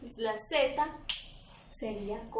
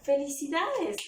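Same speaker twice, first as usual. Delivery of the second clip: "felicidades" as a bright congratulation, a bit higher and louder; congratulating; 4 semitones higher, 4 dB louder than usual. Shown as a demonstration. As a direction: cheer someone with "felicidades". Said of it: "Si yo coloco la palabra". (felicitación alegre)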